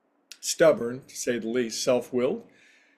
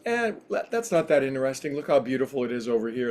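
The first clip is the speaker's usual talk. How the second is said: dismissive deflection; faster than usual. Acted. Angel steering a newcomer away from heaven's warehouses, dismissive. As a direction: wave the question away and quickly change the subject.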